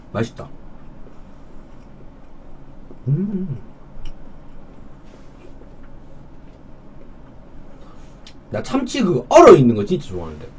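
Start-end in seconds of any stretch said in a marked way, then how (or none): 0.1-8.6 talking while chewing; chewing food. Real, not acted. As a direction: mouth partly full. Seen 1: mouth moving over food, chopsticks raised, eating throughout.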